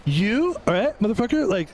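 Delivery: fast-talk like an excited Quentin Tarantino; Tarantino impression. Pretend phone call, voicing Tarantino.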